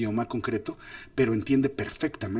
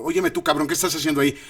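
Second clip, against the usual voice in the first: louder, higher confrontational demand; picking a fight; 4 semitones higher, 5 dB louder, faster than usual. Acted. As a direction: challenge them as if starting a quarrel. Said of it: "automáticamente va a saber que estoy peleando".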